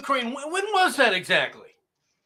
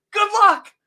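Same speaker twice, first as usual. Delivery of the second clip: sneering dismissal; 7 semitones higher, 7 dB louder than usual. Acted. Sneering advice to Germans.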